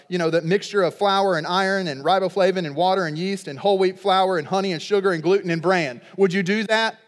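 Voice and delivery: a lightly mocked wordy prayer, rambling on; lightly mocking an over-elaborate prayer to God; overdressed prayer. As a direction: ham up a fussy, long-winded prayer. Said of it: "I need to dress it up a lot".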